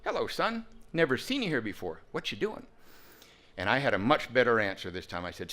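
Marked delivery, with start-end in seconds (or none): 0.1-2.7 put-on a touch of gentle higher voice for the old man; a hint of a kindly old man greeting a newcomer; gentle old-timer. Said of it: "he said it much more gently".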